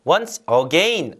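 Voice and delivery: "again" said with a long AY, as a-GAYN; diphthong AGAIN. Shown as a demonstration. Teacher shows learners the version to avoid, "again" as a-GAYN. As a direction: make the second syllable of "again" rhyme with rain. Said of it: "again이 아니라 again".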